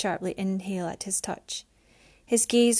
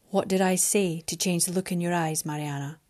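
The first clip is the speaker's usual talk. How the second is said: Alexander's voice; 2 semitones lower than usual. Acted. Alexander asks gently.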